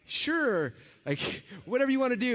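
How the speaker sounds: high, laughing eager agreement; nervous laughing yes. Retold or imitated. Starstruck guest nervously agrees to the host's offer, laughing.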